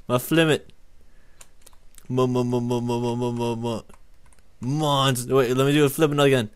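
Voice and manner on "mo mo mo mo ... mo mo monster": steady machine-like stammer on one note; monotone stuttering run-up; stuttered build-up. Pretend. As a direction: repeat the syllable evenly to build suspense. Stutters building to monster flip.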